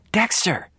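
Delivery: 1 desperate call. A narrator's reading. Sister calling out desperately.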